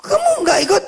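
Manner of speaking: put-on caring mum asking a child; mother's voice. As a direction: play the kind mother, voice lifted high. Mother asks the boy kindly.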